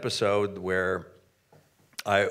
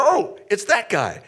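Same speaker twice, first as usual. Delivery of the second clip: higher-pitched protest, passing the credit; acted insistent correction; emphatic disclaimer; 9 semitones higher, 4 dB louder than usual. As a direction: point out the real culprit, voice raised. Deflecting praise onto the ladder guy.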